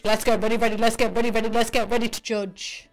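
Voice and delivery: boxing ring announcer. Pretend. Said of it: "announcer catchphrase hype".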